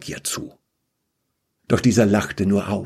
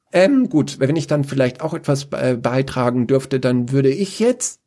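lightly voiced Dinomant, higher and hesitant; timid interjection; 4 semitones higher than usual. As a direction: politely try to butt in.

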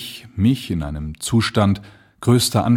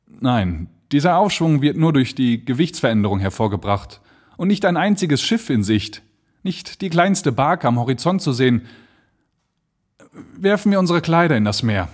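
höhere Stimme, gegen Ende schneller; nüchtern, dann drängend; grim urgency; 4 semitones higher than usual. Acted. Balloon sinking, hopeless sea. (Blanchard zu Jeffries, düster drängend)

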